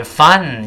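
"fun" hit hard and drawn out; stress on FUN. Shown as a demonstration. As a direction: put the weight on "fun". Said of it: "一定要重读哦".

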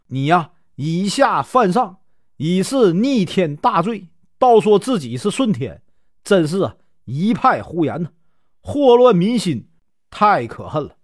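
lightly voiced sneer, peaking on one phrase; mock the rebel with understated contempt; scornful mockery. General scoffs at the rebel leader's claim, mild scorn. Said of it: "孔宣嘲笑道".

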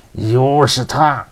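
slow, angry words through gritted teeth; whisper yelling. Acted. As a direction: seethe it under your breath. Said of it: "咬牙切齿地低声说". (咬牙切齿地低声怒说)

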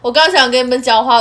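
choked on spit mid-sentence; choking on own saliva, throat catching. Real, not acted. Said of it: "我就被自己的口水呛到了". (被口水呛到)

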